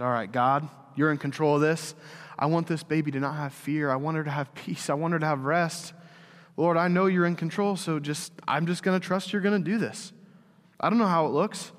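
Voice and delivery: earnest prayer voice, steady and sure; confident prayer. Retold or imitated. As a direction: pray over the child with full trust. Retold prayer over crying daughter.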